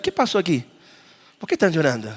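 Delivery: soft, respectful puzzled question; hushed and respectful. Shown as a demonstration. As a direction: ask gently, as a stranger at a funeral. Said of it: "Suena como respetuoso".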